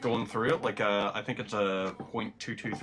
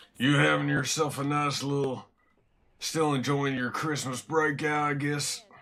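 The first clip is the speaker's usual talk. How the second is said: put-on cowboy voice; 4 semitones higher, 3 dB louder than usual. Speaker addressing a listener as part of a bit: cowboy impression. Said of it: "That's my impression of a cowboy".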